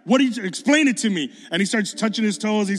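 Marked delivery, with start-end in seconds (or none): 0.0-1.3 retold excited demand. Acting out demand for explanation.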